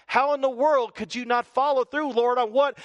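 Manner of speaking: angry demand. Retold or imitated. Believer scolding God for not following through, mock anger.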